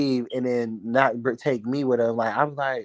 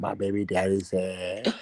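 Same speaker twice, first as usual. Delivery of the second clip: mock mannish voice, much lower and quieter; 5 semitones lower, 4 dB quieter than usual. Retelling what a woman said about her baby daddy: imitating her man-like voice. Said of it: "she sounded like a man too".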